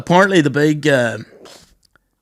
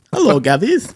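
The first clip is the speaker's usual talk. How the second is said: put-on Welsh accent; 5 semitones higher than usual. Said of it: "I can't even do a Welsh accent".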